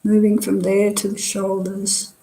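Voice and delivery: calm body-scan guidance with long pauses between phrases; guided meditation. Real, not acted. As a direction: guide them unhurriedly, leaving space after each phrase. Leads a meditation.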